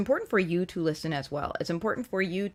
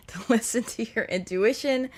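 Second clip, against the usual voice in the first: laughing; 5 semitones higher than usual. Real, not acted. Repeats phrase while laughing.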